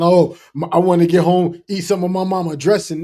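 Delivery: lightly mock their eagerness for mama's food; mimicked homesick eater; mock eager quote. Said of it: "I don't understand how y'all talking".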